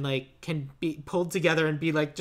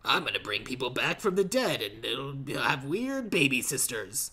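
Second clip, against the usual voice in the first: slow put-on author voice; mock impression of a writer, drawn out and swooping; Frank Herbert; 2 semitones lower, 3 dB quieter than usual. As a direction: intone it slowly as a joke author. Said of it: "That's my Frank Herbert voice".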